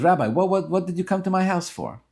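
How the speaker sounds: puzzled rich man demanding an answer; baffled demand. Retold or imitated. Wealthy man confronts silent rabbi.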